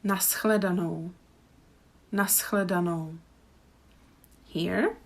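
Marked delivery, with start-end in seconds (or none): 0.0-3.2 Naschledanou said carefully, nas-chle-da-nou; slow model goodbye. Shown as a demonstration. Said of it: "How would you say it?".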